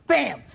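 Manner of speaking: sudden high bam for the crash; mock crash sound effect; crash noise. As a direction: slam the word out like the impact hitting. Retelling the crash impact.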